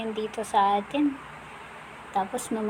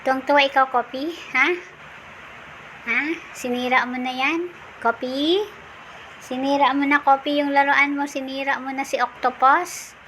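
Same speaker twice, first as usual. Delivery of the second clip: raised, coaxing voice teasing the dog; pet talk to puppy; 4 semitones higher, 4 dB louder than usual. Acted. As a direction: chide the puppy playfully, a bit louder.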